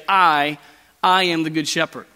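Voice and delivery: "I" said twice, set apart by a pause; emphatic I. Shown as a demonstration. Preacher showing the Greek double pronoun, emphatic "I". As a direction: land on "I", pause, then restate it. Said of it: "we would say".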